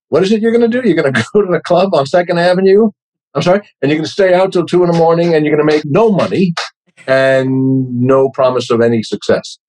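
high, fast mock disbelief of a doubting father; incredulous father. Father voiced scolding career choice.

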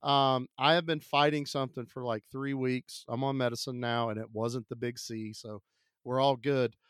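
hoarse, ill voice; sick voice. Real, not acted. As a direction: talk through a cold. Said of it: "the speaker will sound sick".

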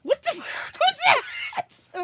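startled laughing yell; high shocked outburst; shocked shout. Real, not acted. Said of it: "Had a puberty burp".

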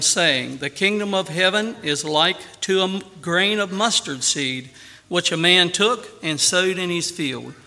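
solemn scripture reading with music behind. Acted. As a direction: read the verses like holy text. Reads scripture over music.

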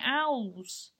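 "owls" said slowly in the speaker's odd way; oddly said vowels. Shown as a demonstration. Showing listeners a word they say weird, oddly pronounced "owls". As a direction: draw out "owls" to show off its strange vowel. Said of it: "I say weird".

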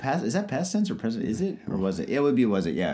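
groggy hungover voice; sluggish, hungover talk. Real, not acted. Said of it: "I'm hungover and I'm drinking".

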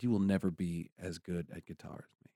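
understated deadpan put-down. Retold or imitated. Brother's friend dismissing a young guitar student, deadpan. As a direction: deliver it evenly, without any expression. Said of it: "just completely deadpan".

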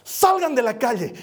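shouting marchers out of the street; retold yelling. Preacher retelling yelling at marchers, loud yell. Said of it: "empecé a gritarles".

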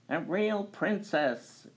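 high, slow delighted cry; excited exclamation. A narrator's reading. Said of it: "exclaimed the queen".

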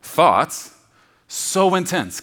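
"Thoughts" shouted, "so intense" high and loud; loud punch. Shown as a demonstration. Preacher driving the phrase home, loud and high. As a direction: hit it hard and high. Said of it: "just think about that".

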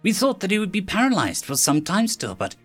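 high, hesitant nervous reply; nervously. Acted. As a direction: stammer it out, unsure of yourself. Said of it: "replied nervously".

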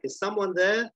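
high, startled call into an empty room. Acted. Sarah startled by a noise in the bathroom, calling out high.

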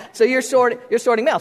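laughing. Real, not acted.

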